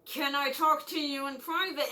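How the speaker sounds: mildly pressing, put-on urgency; insistent request. Student needing the nurse alone, lightly acted insistence. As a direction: press the request a little harder.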